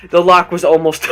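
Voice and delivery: normal talking voice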